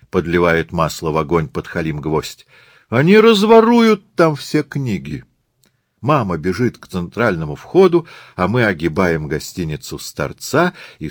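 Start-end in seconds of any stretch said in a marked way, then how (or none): 2.9-5.2 high-pitched, alarmed wail; panicked outcry. Acted. Mother fears for the library's books, panicked. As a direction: cry out as if disaster looms.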